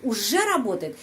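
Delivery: "уже" lifted, then falling; stress on уже. Shown as a demonstration. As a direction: lean on "уже" in the question. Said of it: "Jadi уже dan работает". (tekanan tanya pada "уже")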